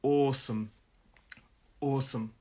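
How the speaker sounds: "awesome" with the opening "aw" held long; teacher modelling a long "aw" in "awesome"; held aw sound. Shown as a demonstration. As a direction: hold the first vowel of "awesome", then fall away. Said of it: "So we hold that sound".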